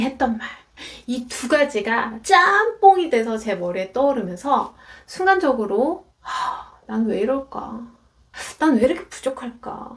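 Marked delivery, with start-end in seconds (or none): 6.2-9.9 anguished self-reproach. Retold or imitated. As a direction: sigh and reproach yourself, dragging the last words. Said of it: "스스로 굉장히 괴로워지더라고요".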